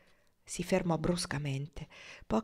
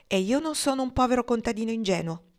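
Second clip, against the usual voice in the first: higher, louder, amused sarcasm; sarcastic and amused; 5 semitones higher, 5 dB louder than usual. Acted. Pocket throws Marnie's insult back, sarcastic and amused. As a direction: toss her words back with a grin. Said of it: "parlando in tono sarcastico e divertito".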